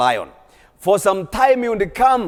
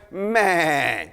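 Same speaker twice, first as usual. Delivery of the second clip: bleat; 4 dB quieter than usual. Acted. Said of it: "It was bleating like sheep".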